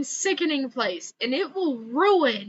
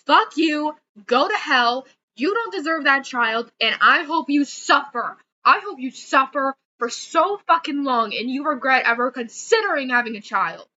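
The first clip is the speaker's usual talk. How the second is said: real anger. Real, not acted. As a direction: spit it out in real rage. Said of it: "I'm getting so angry".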